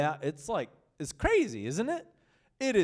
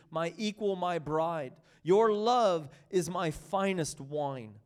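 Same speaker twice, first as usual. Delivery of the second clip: scripture reading; 2 semitones higher than usual. Acted. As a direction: read it as the bridegroom's devotion. Reads Song of Songs text.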